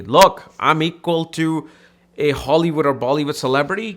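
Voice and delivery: sudden loud, rising look; loud attention call. Retold or imitated. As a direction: bark it out to grab attention. Mocking a show-off's demand.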